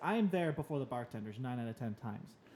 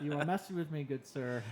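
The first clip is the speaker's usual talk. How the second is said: laughing. Real, not acted. Laughing reply.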